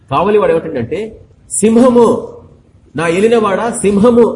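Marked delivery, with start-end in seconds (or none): 1.5-4.3 watchman crying out. Retold or imitated. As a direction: call it out like a watchman spotting a lion. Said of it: "అని అరుస్తున్నాడు". (కావలివాడి కేక)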